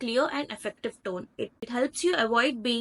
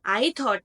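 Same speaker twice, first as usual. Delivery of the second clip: "I" hit louder; stress on I; 5 dB louder than usual. Shown as a demonstration. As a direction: punch "I" ahead of "thought". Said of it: "not someone else".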